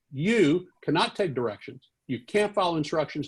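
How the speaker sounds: acted-out angry scolding; maddest. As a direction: imitate a furious editor itemizing faults. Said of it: "he got maddest of all".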